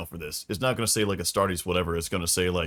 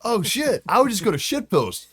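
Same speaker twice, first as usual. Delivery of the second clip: laughing hard; 13 semitones higher, 6 dB louder than usual. Real, not acted. Crack-up laughing reaction.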